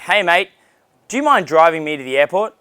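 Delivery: lightly put-on British accent; a hint of imitated British accent; attempted British accent. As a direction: ask a favour in a mock British accent. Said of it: "I'll try to do a British accent".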